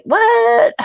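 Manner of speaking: high-pitched acted-out disbelief; a high, disbelieving kid's reaction; incredulous. Chubby kid denied dinner, high incredulous outcry.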